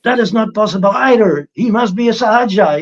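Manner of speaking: lightly voiced critics, still doubting; mock critics dismissing. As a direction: sneer it off as impossible. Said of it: "then they say".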